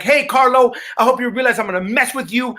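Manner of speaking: a hint of a cheerful bully; openly menacing ego. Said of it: "really spoke to us in its true way".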